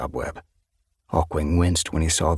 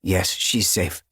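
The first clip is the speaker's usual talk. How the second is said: slow, calm reassurance; reassuring; slower than usual. Acted. Hawkwing comforting his worried mother, slow and reassuring. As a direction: slowly set her mind at ease. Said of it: "Hawkwing reassured her".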